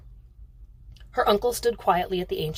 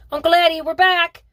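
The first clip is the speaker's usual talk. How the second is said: put-on a boy yelling high and loud as he bursts in; young boy shouting his return at the top of his voice; excited shout; 10 semitones higher, 10 dB louder than usual. A narrator's reading. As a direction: call out over the racket, thrilled. Boys burst in with dog.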